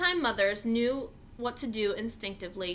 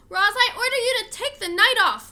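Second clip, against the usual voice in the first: laughing; 11 semitones higher, 9 dB louder than usual. A narrator's reading. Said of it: "Mister Sharif laughed".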